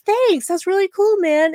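grateful excitement. Retold or imitated. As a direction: gush your thanks to him. Mariner and Boimler voiced thanking.

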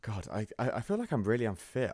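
breathless after a short run; catching breath between words. Real, not acted. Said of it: "I feel out of breath that I just ran".

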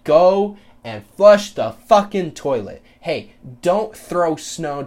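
firm parental order. Retold or imitated. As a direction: lay down the rules to a kid, word by word. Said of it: "tell your fucking kids and say".

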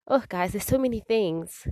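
emphatic exclaim. Real, not acted. Host tells listeners there's so much, emphatic. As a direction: throw it out to the listeners, overwhelmed.

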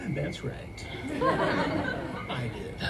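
laughing through a proud punchline; laughing proudly. Real, not acted. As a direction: chuckle it out, pleased with yourself.

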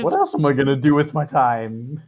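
posh British duck voice; British accent. Acted. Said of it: "I just put on that accent".

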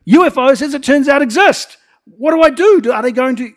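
high, loud, breathless rush of alarm; frantic alarm. Retold or imitated. Preacher reliving his UFO moment, high and loud. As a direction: blurt it out like your mind is racing. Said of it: "I was like".

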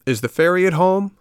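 lightly voiced high puppet. A narrator's reading. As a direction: ask up timidly as the puppet. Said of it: "asked the puppet".

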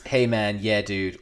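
lightly voiced stoner dude; a hint of slacker dude; Jason Mewes. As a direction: toss it off like a stoner buddy. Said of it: "Almost Jason Mewes-esque".

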